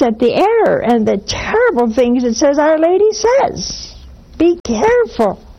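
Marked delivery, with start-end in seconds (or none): 2.6-5.4 aghast. Real, not acted. Aghast at a heretical book.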